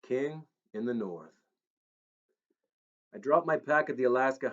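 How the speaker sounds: steady storyteller reading his own tale; story narration. Acted. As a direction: read it like an audiobook. Author reads his story aloud.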